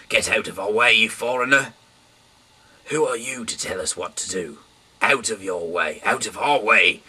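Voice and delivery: loud, high threatening yell; angry mob shout. Acted. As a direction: shove him aside with your voice.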